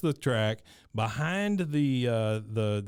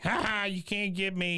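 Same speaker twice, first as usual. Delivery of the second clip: taunting; 7 semitones higher than usual. Retold or imitated. Wichert taunting.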